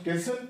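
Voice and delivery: castle said as "kassel", no t; silent T. Shown as a demonstration. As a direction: drop the T in castle. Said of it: "तो इसमें T silent है". (castle में T silent)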